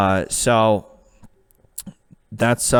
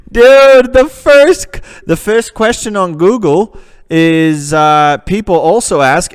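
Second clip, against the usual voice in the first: laughing shout; 7 semitones higher, 8 dB louder, slower than usual. Real, not acted. Laughing shock at Google result.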